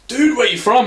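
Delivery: high, loud mock-Texan dude; young Texan rancher. Texan spring breaker approaches a stranger, excited dude. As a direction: play an excitable Texan lad. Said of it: "genuinely ranchers from Texas".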